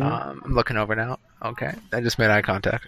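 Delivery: muffled behind a hand; hand over mouth. Real, not acted. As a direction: speak through fingers over lips. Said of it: "hand over my mouth".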